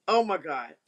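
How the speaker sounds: breathless whispered gasp of joy. Real, not acted. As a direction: whisper it in disbelief. Excited about son's EP.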